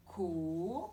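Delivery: co held long on a closed O; drawn-out co. Shown as a demonstration. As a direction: stretch the vowel of co to show it. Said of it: "pour bien vous montrer".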